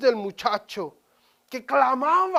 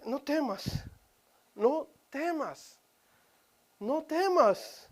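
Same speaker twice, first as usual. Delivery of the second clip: gentle reassurance; 5 dB quieter, slower than usual. Acted. Angel comforting Hagar.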